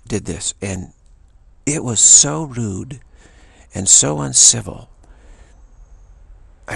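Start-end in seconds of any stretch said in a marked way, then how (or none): 1.7-4.9 indignant emphasis. Real, not acted. Indignant at the rude driver.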